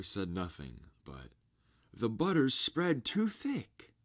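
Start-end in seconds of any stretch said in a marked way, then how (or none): 1.9-3.9 high, loud complaint; irritable carpenter. A narrator's reading. Carpenter grumbles about the butter, high irritable voice. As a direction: whine it out, pitched right up.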